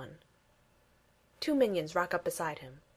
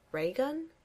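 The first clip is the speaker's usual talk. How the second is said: surprised; 8 semitones higher than usual. A narrator's reading. Steve surprised.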